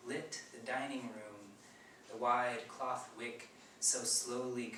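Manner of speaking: measured poem reading with line-end pauses; poetry reading. Acted. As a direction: read it slowly, phrase by phrase. Reads own poem aloud.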